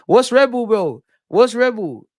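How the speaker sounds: high, loud, disbelieving; incredulous repeat. Real, not acted. Streamer echoing a chat message, high and loud. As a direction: throw it back at chat in disbelief.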